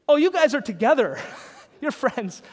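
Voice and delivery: teasing sing-song with laughter; imitating strangers who assume they are a couple; mock assumption, laughing. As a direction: laugh through the guess.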